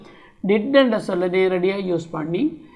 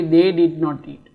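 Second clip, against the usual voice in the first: very slow, each word spaced out; slow classroom model sentence; slow drill; 3 semitones lower, much slower than usual. Shown as a demonstration. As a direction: say it word by word for learners. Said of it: "அவர்கள் சாப்பிடவில்லை".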